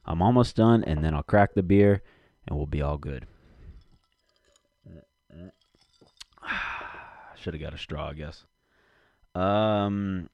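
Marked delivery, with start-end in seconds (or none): 0.1-8.5 chewing ice while talking; ice in mouth. Real, not acted. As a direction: talk around crunching ice. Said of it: "hard not to chew this ice".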